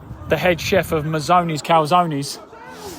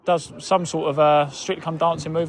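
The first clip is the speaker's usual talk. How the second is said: live play-by-play; 3 semitones higher than usual. Acted. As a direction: call the match as it happens. Live commentary on the match.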